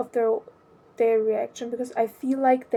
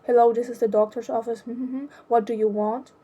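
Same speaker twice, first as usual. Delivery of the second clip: rushed curt receptionist; faster than usual. Retold or imitated. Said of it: "she says".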